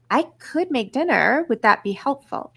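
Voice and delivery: 부드럽게 제안하는 말투; offering gently. Shown as a demonstration. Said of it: "now I want you to hear how I said that".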